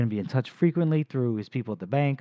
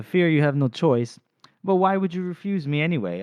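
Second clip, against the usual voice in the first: lightly voiced smug villain; 4 semitones higher, 4 dB louder than usual. Baez pressing Glokta.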